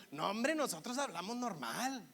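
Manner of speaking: sing-song regio protest; punchy, lilting regio accent; Monterrey accent. Acted. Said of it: "ese acento así como golpeadón, cantadito".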